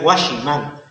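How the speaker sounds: "Washington" said as Spanish "washiman"; phonetic adaptation. Shown as a demonstration. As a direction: say "Washington" as "wa-shi-MAN", Spanish-style. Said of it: "Son adaptaciones fonéticas".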